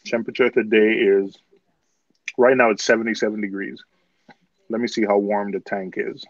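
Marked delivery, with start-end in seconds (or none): 0.1-3.8 mouth full. Real, not acted. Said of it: "I'm sorry for the crunching".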